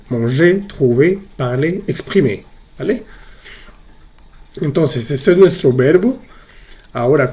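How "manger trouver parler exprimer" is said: "Manger, trouver, parler, exprimer" all ending in "ay"; same with accent. Shown as a demonstration. Teacher showing accented forms sound identical, "Manger, trouver, parler, exprimer" ending in "é". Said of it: "con la tilde también igual".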